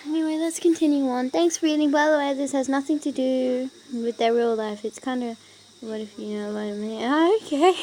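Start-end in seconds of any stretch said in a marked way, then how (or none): 0.1-4.8 upbeat. Acted. Back to reading note.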